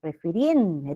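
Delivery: "Refirien-" broken off after a held RIEN; stress on RIEN. Shown as a demonstration. Teacher isolating the tonic syllable for students, stress on RIEN in "Refirien-". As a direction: lean on the last syllable of "Refirien-". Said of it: "rien es la sílaba tónica".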